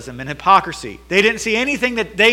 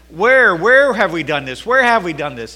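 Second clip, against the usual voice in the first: mock protest. Judah protesting to God.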